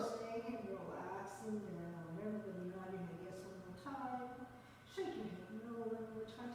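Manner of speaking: quiet, soothing cue; soft-spoken. Shown as a demonstration. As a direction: keep it low and gentle. Soft cues during relaxed hang.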